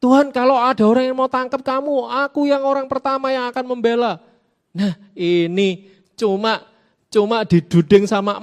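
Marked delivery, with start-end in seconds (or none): 0.0-4.2 a bit higher and louder, eager pledge; mock-heroic promise to defend Jesus; quoting Peter's boastful vow with a touch of zeal; fervent vow. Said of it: "ngomongnya menggebu-gebu ya".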